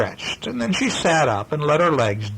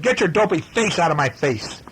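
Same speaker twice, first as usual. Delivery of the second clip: snarl; 5 semitones higher than usual. Acted. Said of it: "snarled Brother".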